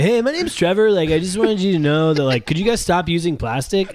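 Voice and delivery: high, earnest nerdy caller; a co-host's take on Trevor's call; mocking Trevor. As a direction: parody a polite activist on the phone.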